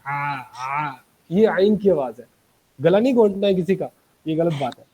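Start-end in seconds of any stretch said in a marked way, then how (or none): 0.1-0.9 soft strangled आ, आ from the throat; a mild mock of a squeezed throat; mock choked sound. Shown as a demonstration. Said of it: "गले से जो आवाज़ें निकल रही हैं". (हल्की दबी हुई गले की आवाज़)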